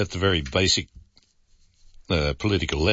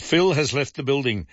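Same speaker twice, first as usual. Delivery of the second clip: higher-pitched, light attempt at a Las Vegas accent; a hint of Las Vegas accent, pitched up; 6 semitones higher than usual. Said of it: "in my best Las Vegas accent".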